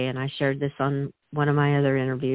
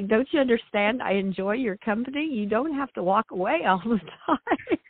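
pleading pony voice; 6 semitones higher than usual. Retold or imitated.

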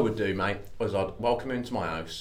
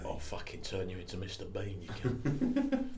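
Cockney; 7 dB quieter than usual. Acted. Trying a Cockney one about Mister Bean, soft Cockney threat. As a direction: threaten quietly in a put-on Cockney accent. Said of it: "could be a good Cockney one".

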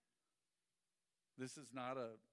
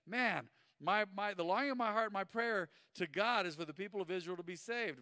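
heartfelt Paul; 5 semitones higher, 5 dB louder than usual. Retold or imitated. Voicing Paul's heartfelt longing.

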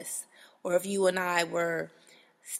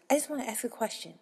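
imitating rude customer; 2 semitones higher, faster than usual. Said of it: "come up and say".

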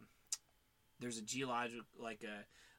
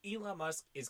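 emphatic; 6 semitones higher, 9 dB louder than usual. Real, not acted. Emphatic hype about Elon.

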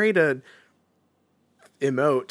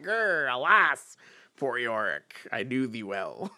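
Shakespearean actor; 2 semitones lower than usual. Retold or imitated. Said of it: "speaks like a Shakespearean actor".

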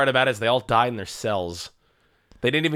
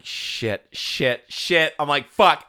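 rising panic; 3 semitones higher, much slower than usual. Retold or imitated. Podcaster retells fighting tears in the cinema, rising panic. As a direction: swear in mounting dread.

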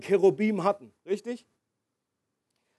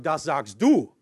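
mock evasive Jesus; 8 semitones lower than usual. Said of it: "als würde Jesus sagen".

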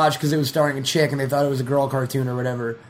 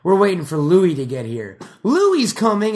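louder eager announcement; hyped up waiting for Louis; excited crowd; 2 semitones higher, 5 dB louder than usual. Retold or imitated. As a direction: sketch crowd buzzing about Louis. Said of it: "they'll be like".

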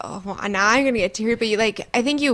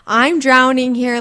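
overwhelmed plea; 4 semitones higher, 7 dB louder, slower than usual. Retold or imitated. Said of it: "just being like".

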